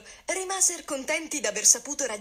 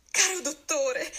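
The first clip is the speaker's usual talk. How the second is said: slow, higher, relieved address; 5 semitones higher than usual. A narrator's reading. Calandrino answers the doctor, relieved and slow. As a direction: say it with the worry easing off. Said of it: "rispose Calandrino un po' risollevato".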